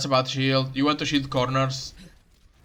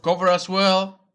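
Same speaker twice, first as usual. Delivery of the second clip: voice cracking; 5 semitones higher than usual. Real, not acted. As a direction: voice cracks mid-sentence. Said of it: "my voice cracked".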